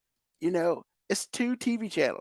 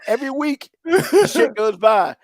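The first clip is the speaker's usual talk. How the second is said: slow, much louder, higher yell; drawn-out real rage; angry shout; 7 semitones higher, 8 dB louder, slower than usual. Real, not acted. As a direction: spell it out at full volume. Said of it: "you might wanna check your pressure after this".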